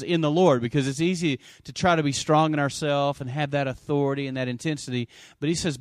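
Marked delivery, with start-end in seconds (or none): 0.0-0.6 In the Lord with Lord pressed hard and falling; stress on Lord. Shown as a demonstration. To the congregation, pointing at the verse, Lord stressed. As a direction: lean into the word Lord. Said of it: "Notice it says".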